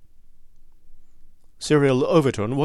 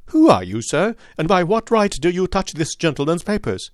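put-on sharp, crackling old lord, louder; a hint of a testy old nobleman demanding answers; old lord challenging the detective, querulous and sharp; querulous old man; 5 semitones higher, 4 dB louder than usual. A narrator's reading. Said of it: "his voice had a sharp crackle".

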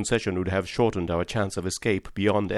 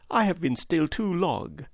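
ringing declaration; 9 semitones higher than usual. A narrator's reading. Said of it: "in a tone that must have reached the pit".

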